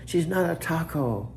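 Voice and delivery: patiently drawing it out for a stubborn device; exasperated correcting. Retold or imitated. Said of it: "I say".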